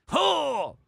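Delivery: high, loud "oh" as if chopped in the sternum; punched-in-the-chest exclamation; chesty guttural grunt. Shown as a demonstration. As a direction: push it out congested and high. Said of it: "karate chopped you in the sternum".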